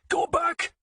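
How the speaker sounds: high, loud warning; yell. Acted. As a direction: scream at her to turn back. Warning his wife.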